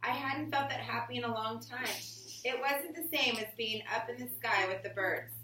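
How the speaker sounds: slow, expressive storybook reading; reading to children. Acted. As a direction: read it to the class like a picture book. Reading picture book aloud.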